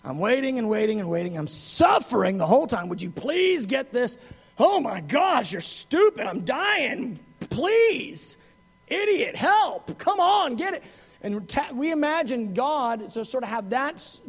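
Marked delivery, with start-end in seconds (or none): 0.0-10.8 exasperated pleading; mock martyr groaning at us; long-suffering whine. Preacher imitating an impatient God begging us to get it. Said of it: "somebody that's suffering long".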